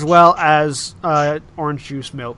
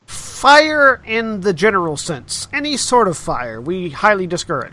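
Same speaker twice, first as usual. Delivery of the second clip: announcer voice. Acted. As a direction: spell out the rule like an announcer. Staff clarifies announcement.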